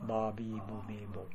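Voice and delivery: soft, fast バビブベボ with lips touching; lips pressed ba. Shown as a demonstration.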